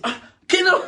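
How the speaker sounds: high, loud surprised cry; mock surprise. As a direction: exclaim in fake shock. Surprised owner.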